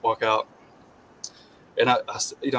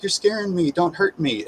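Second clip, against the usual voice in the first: mock scared woman; 6 semitones higher than usual. Mocking her scared pleas.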